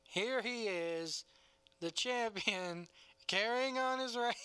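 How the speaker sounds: slow, bored, lifeless read; blah monotone. Retold or imitated. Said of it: "in the most, like, blah kind of way".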